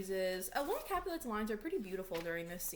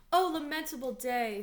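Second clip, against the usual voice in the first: loud, raised theatrical wail; acted lament; 5 semitones higher, 9 dB louder than usual. Nurse to Lady Capulet on finding Juliet dead, loud acted lament. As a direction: cry it out in mock grief.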